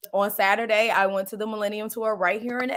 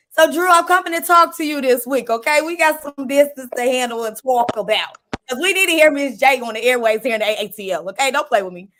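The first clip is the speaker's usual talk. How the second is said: louder, pitched-up playful call to the boss; 2 semitones higher, 5 dB louder than usual. Real, not acted. Host calling out her boss, playful and loud. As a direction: hype it up, calling him out on air.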